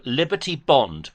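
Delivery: "Bond" said slowly with a clear final N-D; corrective enunciation. Shown as a demonstration. Correcting the caller who misheard the term, corrective enunciation. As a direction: stress "Bond", sounding its closing D. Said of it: "not a bomb".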